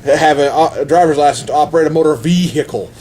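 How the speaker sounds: put-on mild Texas accent, leaning on the VE of vehicle; lightly put-on Texas trooper, "vee-hicle"; a hint of Texas officialdom. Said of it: "they, like, bolded the accent part".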